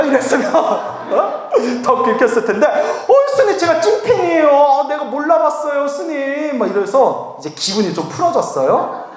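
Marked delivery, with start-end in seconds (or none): 2.7-6.6 high, hammed-up apology falling toward the end; gushing fan. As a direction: fawn apologetically like a starstruck fan. (높은 톤으로 호들갑 떠는 팬 흉내)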